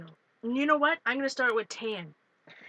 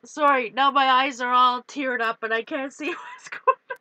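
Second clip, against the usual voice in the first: laughing; 5 dB louder than usual. Real, not acted. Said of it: "I'm crying up a storm".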